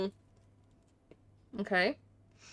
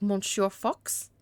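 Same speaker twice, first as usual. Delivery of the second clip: slow, tentative French accent; much slower than usual. Shown as a demonstration. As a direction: draw out a mock French address. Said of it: "then I'd be like".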